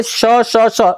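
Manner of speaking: श as a hushing "sh" with air rubbing through; felt sibilant. Shown as a demonstration. Teacher having students feel the warm air, hissed "sh" on श. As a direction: push air through each श so it can be felt. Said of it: "इस पे feel करिएगा".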